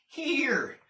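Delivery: a busy nanny, brisk. Acted. Nanny hands over bunny.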